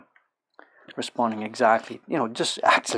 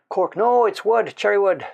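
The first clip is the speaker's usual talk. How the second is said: calling out; 8 semitones higher, 7 dB louder than usual. Real, not acted. Calling out a correction to someone.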